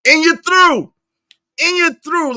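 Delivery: high, loud catchphrase shout; Drip's catchphrase. Retold or imitated. Streamer cutting off chat with Drip's catchphrase, high and loud. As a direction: belt it out high, like someone's signature line. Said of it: "like Drip say".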